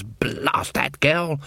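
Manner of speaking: whispered, slow curse under the breath; muttered curse. Acted. Granny cursing the fairy queen, slow whisper. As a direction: hiss it to yourself.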